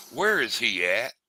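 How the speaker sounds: slow Southern drawl on "Where is he at?"; lightly voiced Southern old-timer, slow; Southern accent. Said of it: "Got the old Southern".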